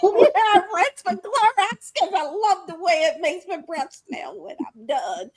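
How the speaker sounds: loud, giggling mock granny voice; laughing parody. Friend parodying the Clorox lady, laughing loudly. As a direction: quote her through the laughs. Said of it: "parodying the old lady".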